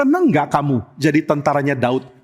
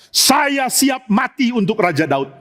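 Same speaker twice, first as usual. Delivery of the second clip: tearful vow; 5 semitones higher, slower than usual. Acted. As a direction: swear loyalty while choking up. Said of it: "kenapa masih nangis? masih terharu". (sumpah setia sambil menangis terharu)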